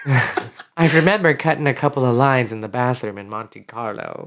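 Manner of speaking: lightly performed book opening, slow chapter title; mock memoir opening. Cohost suggests writing a book, mock memoir opening. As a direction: read out a pretend memoir, trailing down at the end. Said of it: "You're gonna start like that?".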